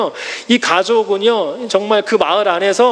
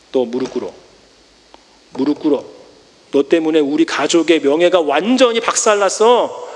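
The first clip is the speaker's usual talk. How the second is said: stern rebuke; 5 semitones lower than usual. Acted. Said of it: "이렇게 해야 되는 것이 맞거든요".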